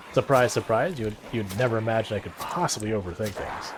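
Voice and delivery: dry mock surprise; tongue-in-cheek self-mockery; sarcastic. Real, not acted. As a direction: feign disbelief at your own well-known flaw. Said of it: "I'm being incredibly sarcastic".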